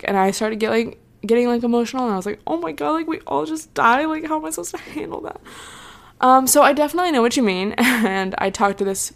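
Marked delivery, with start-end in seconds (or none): 2.4-5.4 mock panic. Retelling her panicked thoughts.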